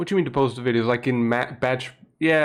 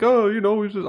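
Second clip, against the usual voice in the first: high, louder mock-whiny voice; mocking the moderator; 10 semitones higher, 5 dB louder than usual. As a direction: parody a smug moderator brushing it off. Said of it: "and the mod was like".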